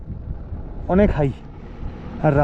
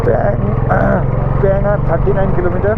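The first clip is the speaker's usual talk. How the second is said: hoarse, cold-worn voice; 3 semitones higher than usual. Real, not acted. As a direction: speak through a hoarse throat. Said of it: "ঠান্ডায় গলা বসে গেছে".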